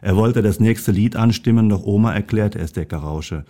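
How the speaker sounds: lively storybook reading; reading a story to an audience; story narration. A narrator's reading. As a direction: read the tale aloud, animating each animal's lines. Reads a Christmas story aloud.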